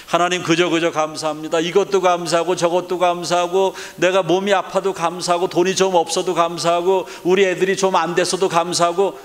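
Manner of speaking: preacher's demo of grateful prayer; fervent prayer demo. Shown as a demonstration. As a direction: pray it out with conviction. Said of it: "한번 감사해 보세요".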